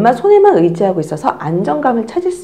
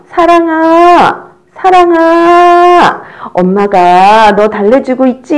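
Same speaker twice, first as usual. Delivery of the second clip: very loud, higher, very slow; loud resonant calling; 7 semitones higher, 8 dB louder, much slower than usual. Shown as a demonstration. Teacher calls the crying baby loudly and slowly. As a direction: ring it out so the baby hears. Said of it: "크게 해주세요".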